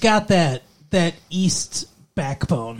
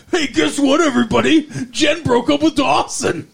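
high-pitched mock radio DJ announcement; college radio announcer; 7 semitones higher than usual. Mock DJ telling everybody Jen broke up, excitedly announcing. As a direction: announce gossip to all the listeners, hammed-up. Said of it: "hit on a college radio station".

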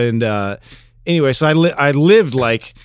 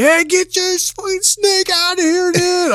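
freaked-out yell; slower than usual. Retold or imitated. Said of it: "I'm like".

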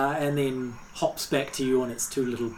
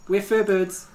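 bird character; 6 semitones higher, 4 dB louder than usual. Acted. Bird corrects the player.

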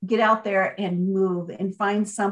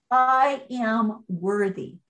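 smiling affirmation; much slower than usual. Shown as a demonstration. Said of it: "and put a smile on your face".

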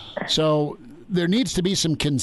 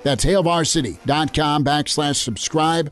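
upbeat radio sponsor read, slightly louder; 3 dB louder than usual. Acted. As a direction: sell the subscription like a radio spot.

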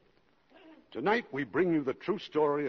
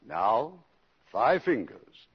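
commercial pitch; 4 dB louder than usual. Acted. Host reads Lux commercial.

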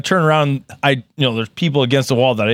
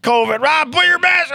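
higher, pushy front-desk voice; imitating receptionist; 12 semitones higher than usual. Man mimics the clinic receptionist ordering his mask on, higher bossy. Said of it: "they're like".

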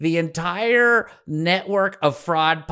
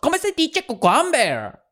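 high, hammed-up Spanish accent; mock Spanish accent; 10 semitones higher than usual. Host mocking the woman who forgot cucumber, hammed-up Spanish accent. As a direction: exaggerate a Spanish accent, pitched up.

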